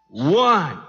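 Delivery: high, drawn-out count; slow suspenseful counting; tense countdown. Acted. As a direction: count down to the throw, rising in pitch. Acts countdown to the furnace throw.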